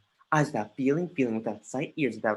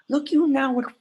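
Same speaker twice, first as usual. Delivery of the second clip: scornful; 11 semitones higher, 7 dB louder than usual. Acted. Hamlet shows second picture.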